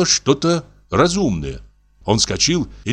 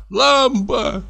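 put-on "лампа" leapt up high in a drunken wail; higher lampa. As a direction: throw the second "лампа" way up high. Repeats lamp in drunken rant.

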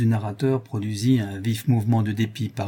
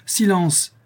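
higher, commanding cry for order; stern exclamation; 9 semitones higher, 5 dB louder than usual. A narrator's reading. Lieutenant silences the interrupting sailor, stern exclamation. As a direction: cut them off with firm authority. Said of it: "m'écriai-je d'un air sévère".

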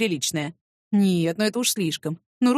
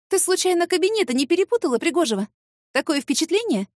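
sharp, higher and challenging; stern rebuke; 7 semitones higher than usual. Acted. Secretary confronting her office rival, stern and sharp. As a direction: scold her like a strict boss. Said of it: "Ого, как я грозно".

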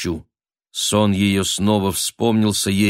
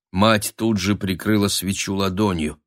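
ordinary delivery

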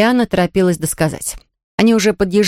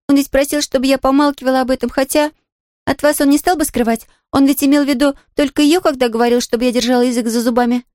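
put-on higher, quick girl's voice bursting to tell; excited little girl; 6 semitones higher than usual. A narrator's reading. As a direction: gush like a thrilled child. Pollyanna explains eagerly.

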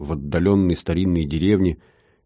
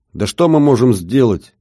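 louder, higher exclaiming; emotional exclamation; 4 semitones higher, 5 dB louder than usual. Acted. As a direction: cry it out with feeling. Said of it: "эмоционально воскликнул Траутман".

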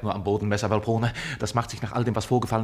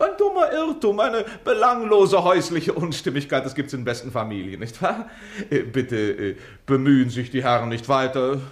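oily reassurance; 4 dB louder than usual. Acted. Smoothing things over to officers.

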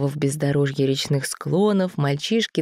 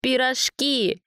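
sudden remembering; 8 semitones higher, much slower than usual. A narrator's reading. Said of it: "вспомнил Никита".

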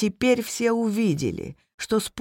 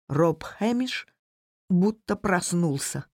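plain reading voice

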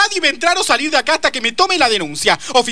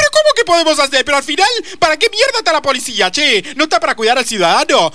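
fast, indignant rant; outraged; 3 semitones higher, faster than usual. Acted. Mother rants at the officer, fast and outraged. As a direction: fire it at the useless cops.

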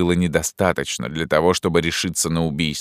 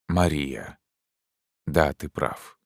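much softer, halting admission; hushed, troubled; 5 dB quieter, slower than usual. Acted. Pierrot quietly admits, fearing eavesdroppers.

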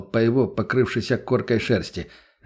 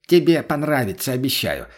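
dismissive; 3 semitones higher than usual. Acted. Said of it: "отмахнулся тот".

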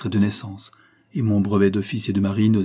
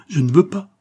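urgent refusal; 8 semitones higher, 6 dB louder than usual. Acted. Concepcion refuses to let him leave.

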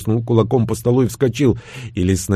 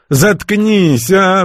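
higher, louder pleading cry; pleading shut up; 9 semitones higher, 4 dB louder, much slower than usual. Acted. Igor begging the narrator to shut up, pleading loudly. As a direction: beg him to stop, voice up high. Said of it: "взмолился тот".

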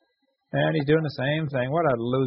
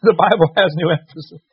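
louder, put-on voice mocking his own flub; laughing mock voice rereading "The Bible has new emphasis"; mock reading flub; 3 semitones higher, 8 dB louder than usual. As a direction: ham up the misread line. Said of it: "I didn't put the emphasis".

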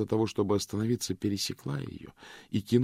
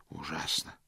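shaken; 4 semitones lower, 8 dB quieter than usual. Acted. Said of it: "проговорил он с побелевшим лицом".

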